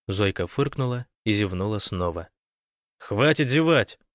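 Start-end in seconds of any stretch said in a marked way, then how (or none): 3.0-4.0 loud, high, drawn-out bark; barked order. A narrator's reading. Lyubimov to yawning Zoika, barking an order. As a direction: bark it at the yawner. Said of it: "рявкнул Любимов".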